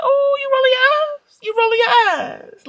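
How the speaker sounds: high, loud "You rolling your eyes?"; loud mock challenge. Mom loudly teases the girl who rolled her eyes, high and playful. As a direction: call her out playfully at full volume. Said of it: "Like that".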